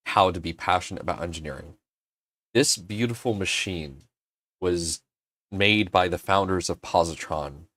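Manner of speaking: low, soft earnest speech; solemn paraphrase. Retold or imitated. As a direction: quote the host's heartfelt words quietly. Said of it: "He said".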